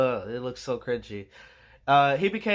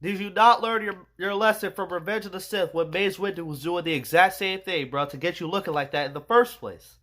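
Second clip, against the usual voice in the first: loud, higher mock yell at the villain; yelling at the screen; 4 semitones higher, 4 dB louder than usual. Yelling at Palpatine on screen, loud and higher. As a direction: shout it at the screen. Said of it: "I was like".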